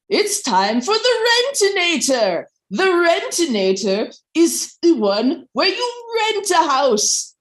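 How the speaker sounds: upbeat infomercial pitch. Acted. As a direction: sell it like a late-night infomercial host. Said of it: "in the style of an infomercial".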